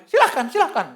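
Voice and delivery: high, loud dismissive shout; mock-irritated yell; retold angry consent. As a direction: throw it out impatiently, imitating the angry man. Angry man grudgingly allows prayer.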